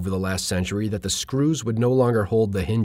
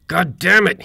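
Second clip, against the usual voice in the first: loud, high outburst of exasperation; screamed; 8 semitones higher, 7 dB louder than usual. A narrator's reading. Handyman curses the door that will not fit, screaming. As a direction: yell it out, well above your normal pitch. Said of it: "he screamed".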